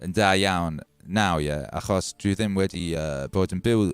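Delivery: rusty Welsh, groping for words with pauses; falteringly spoken Welsh; halting Welsh. Shown as a demonstration. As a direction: speak Welsh you half remember, hesitating. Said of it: "That was me talking Welsh kind of badly".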